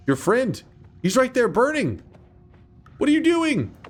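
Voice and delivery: high, loud exasperated shout; real high shouting; frustrated yell. Real, not acted. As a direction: yell at the useless teammate. Yelling at teammate in game.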